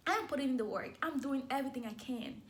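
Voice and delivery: praying to God after failed races, rising frustration; frustrated plea. Retold or imitated. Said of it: "I was like".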